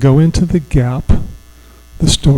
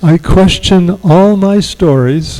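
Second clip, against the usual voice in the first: slow affirmation to repeat; 3 semitones higher than usual. Shown as a demonstration. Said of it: "you're gonna repeat it after me".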